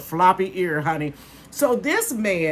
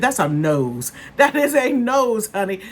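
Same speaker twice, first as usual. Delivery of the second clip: sassy; 4 semitones higher, 4 dB louder than usual. Retold or imitated. Retort to granddaddy about snoot.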